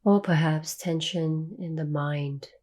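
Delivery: calm meditation guide, long pauses between phrases; guided meditation. Real, not acted. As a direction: ease listeners into stillness, leaving long silences.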